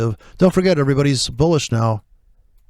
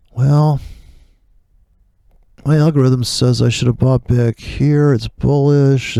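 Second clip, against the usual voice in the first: mock trend trader; 4 dB louder, slower than usual. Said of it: "and he's like".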